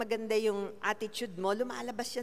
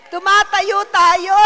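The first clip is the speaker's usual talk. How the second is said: even louder and higher, drawn out; louder shouted call; 11 semitones higher, 19 dB louder, slower than usual. Real, not acted. Preacher repeating the call to stand, louder still. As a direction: push harder the second time.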